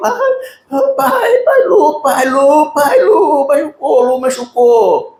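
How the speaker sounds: very high, drawn-out, sobbing, panicked desperate crying. Retelling a son's panicked words after his brother got hurt: imitating a desperate crying child. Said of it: "E Igor naquele desespero".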